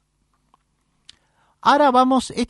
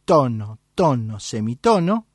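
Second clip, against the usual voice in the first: dictating slowly. Shown as a demonstration. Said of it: "E escriben en, en la hoja".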